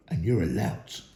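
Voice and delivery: low sneer. A narrator's reading. Troll insult.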